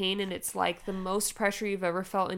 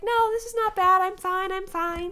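retold insistence; 12 semitones higher, 5 dB louder than usual. Insisting she is fine in labor.

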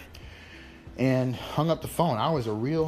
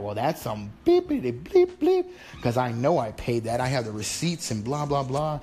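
heated retort; 3 dB louder than usual. Retold or imitated. Arguing with the debt collector.

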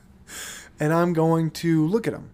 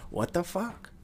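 baffled what the fuck; 2 semitones higher, 9 dB quieter than usual. Retold or imitated. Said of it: "I'm just gonna be saying this".

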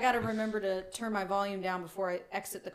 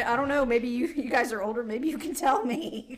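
mocking imitation; 3 semitones higher than usual. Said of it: "You said".

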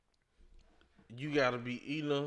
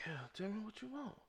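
higher, softer seductive coaxing; romantic bedroom voice; 8 semitones higher, 11 dB quieter, faster than usual. Shown as a demonstration. Showing men what to say in bed, soft seductive coaxing. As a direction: coax her gently, in bedroom tones. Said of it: "my tone of voice".

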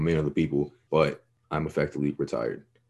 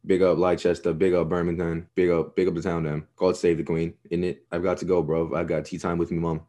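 playful fake British accent; mock UK accent. Podcast host signing off to British listeners in a pretend UK accent. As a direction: shout out towns in a put-on UK accent. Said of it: "can I hear your best U K, uh, accent".

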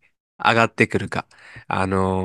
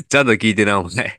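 mock rough; 4 dB louder than usual. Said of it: "二回言うなって。".

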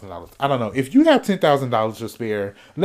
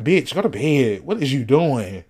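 louder bossy command to herself; scolding herself; 6 dB louder than usual. Shown as a demonstration. She orders herself out of the kitchen at 2 AM, bossy and loud. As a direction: shoo yourself out of the kitchen. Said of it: "I have to talk to myself like that".

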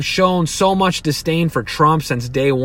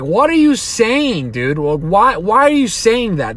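mock baffled voter; 4 semitones higher than usual. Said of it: "They're like".

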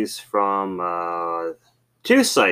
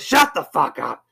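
retold embarrassed retort; 7 semitones higher than usual. Caught softie retorts to teasing.

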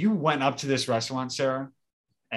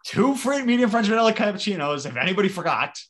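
emphatic; 8 semitones higher, 5 dB louder than usual. Real, not acted. Retelling order loudly, emphatic.

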